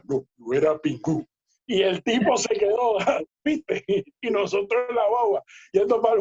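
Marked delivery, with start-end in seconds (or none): 0.0-1.2 Zungo's baritone voice. Retold or imitated. Telling a friend how Zungo answered, in a lower baritone imitation. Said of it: "un barítono".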